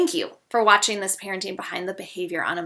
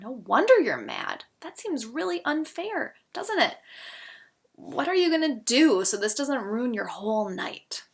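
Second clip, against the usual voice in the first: validating parent; 3 semitones higher than usual. Shown as a demonstration. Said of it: "I might say".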